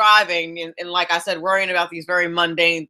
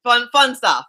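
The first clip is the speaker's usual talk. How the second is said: light words tipping into a laugh; breaking into laughter; 5 semitones higher, slower than usual. Real, not acted. Host turns from heavy stories to lighter topics, laughing. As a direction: laugh as you finish.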